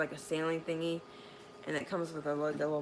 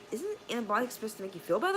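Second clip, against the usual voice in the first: confused complaint; 5 semitones higher, faster than usual. Retold or imitated.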